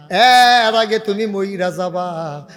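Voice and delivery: loud, slow, drawn-out warning; stretched-out sermon call; preacher's warning cry. Real, not acted. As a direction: cry out the warning slowly and loudly. Preacher warns the congregation.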